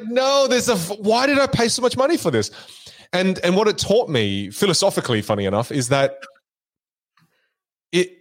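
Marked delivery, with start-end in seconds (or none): 0.0-2.5 high-pitched outraged protest, retold; exasperated high-voiced complaint; indignant disbelief. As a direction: act out feeling cheated, pitched well up. Retells shock at costly trick.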